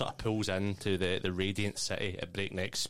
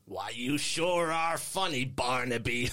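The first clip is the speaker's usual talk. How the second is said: put-on high, bright little boy; cheery kid voice; 4 semitones higher, 3 dB louder than usual. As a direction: sing it like a chirpy kid. Kid character voice.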